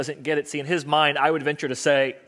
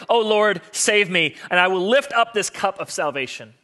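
raised, higher cry to God; calling out; 4 semitones higher, 4 dB louder than usual. Acted. Psalmist cries to the Lord for saving, calling out. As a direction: call out the psalm louder and higher.

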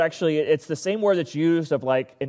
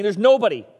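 crying out; 5 semitones higher, 4 dB louder than usual. Retold or imitated. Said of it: "So he's crying out".

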